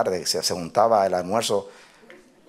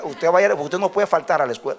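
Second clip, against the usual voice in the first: insistent mother; 8 semitones higher than usual. Retold or imitated. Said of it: "dice, dice, "Mamá".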